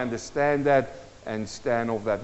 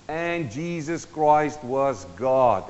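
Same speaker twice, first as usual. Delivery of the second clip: very slow, lower-pitched declaration of "And Jesus Christ was God"; slow and deliberate; 5 semitones lower, much slower than usual. Real, not acted. Preacher to congregation so they get this, slow and deliberate. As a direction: spell it out slowly so each word lands. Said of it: "I'm gonna say it slow".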